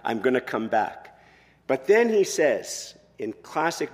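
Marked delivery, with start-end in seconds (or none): 0.0-1.2 action hero line. Retold or imitated. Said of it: "classic action hero thing".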